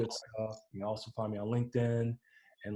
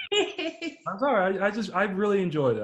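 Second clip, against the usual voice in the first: choked up, voice rising with emotion; fighting back real tears while praising; teary-eyed; 10 semitones higher, 6 dB louder than usual. Real, not acted. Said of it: "I'm getting kinda teary-eyed".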